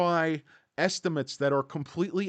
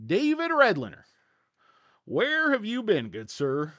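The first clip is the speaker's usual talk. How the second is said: excited greeting; 7 semitones higher, 4 dB louder than usual. Real, not acted. Greeting a viewer by name.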